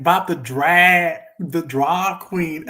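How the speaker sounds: slow, drawn-out mock Minnesota vowels; mock Minnesota accent. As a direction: imitate her Minnesota way of saying it, slowly. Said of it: "that weird accent on the way".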